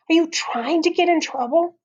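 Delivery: high-pitched, exasperated question; indignant. A narrator's reading. Howie challenges Eddie after being pushed, high and indignant. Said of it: "pushed him into the girls' bathroom".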